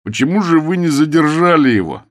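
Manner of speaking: high, loud demand; furious reproach; angry. A narrator's reading. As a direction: keep yelling at him. Ukridge still yelling at Bilson.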